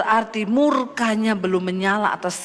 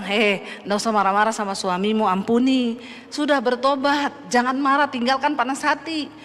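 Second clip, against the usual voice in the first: gentle inner voice. Retold or imitated. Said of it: "ada suara yang bilang".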